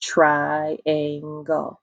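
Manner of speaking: "Triangle" drawn out on one level note; split into syllables. Shown as a demonstration. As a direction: clap out "Triangle" as TRI-AN-GLE, evenly. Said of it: "three syllables in the word triangle".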